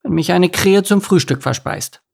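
high-pitched defiant little duckling; anxious youngster objecting, pitched high; timid duckling, protesting. Acted. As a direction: argue back in a high child's voice. Enno argues back.

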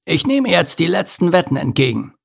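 high-pitched announcement to a crowd; calling out. A narrator's reading. Spider to the rowdy crowd, calling for bets. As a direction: call it out high, not shouting. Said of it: "wandte sich an das gröhlende Publikum und rief".

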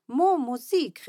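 put-on high, slow, loud little-kid call; a toddler proudly shouting. A narrator's reading. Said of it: "rief Mo".

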